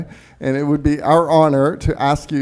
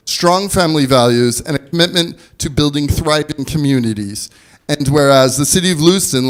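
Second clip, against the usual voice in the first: measured official proclamation read; formal proclamation; 3 dB louder than usual. Acted. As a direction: read it like a civic decree. Mayor reads formal proclamation.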